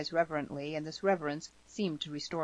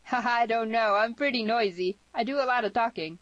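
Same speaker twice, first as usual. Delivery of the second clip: put-on higher, louder, chatty girl's voice; playful higher voice for a talkative girl; smiling girl; 7 semitones higher, 6 dB louder than usual. A narrator's reading. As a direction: say it through a smile, pitched up. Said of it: "she smiled".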